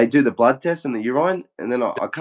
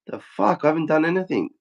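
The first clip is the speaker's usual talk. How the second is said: higher-pitched, incredulous protest; put-upon disbelief, pitched up; retold indignant disbelief; 4 semitones higher than usual. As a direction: act out protesting your innocence. Retold protest at being searched.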